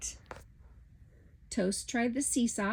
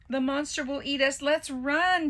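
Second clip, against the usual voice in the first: panicked; 6 semitones higher, 5 dB louder than usual. A narrator's reading. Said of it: "Toast declared".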